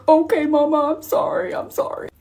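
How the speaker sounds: put-on small, high child voice fading to breath; put-on tearful little-girl apology; imitated young daughter. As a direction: mimic a sorry little kid, trailing into near-whisper. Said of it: "And she's like".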